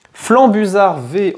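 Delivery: high, slow, thrilled reveal; light up at the pull; excited. Real, not acted. Pulls a rare card.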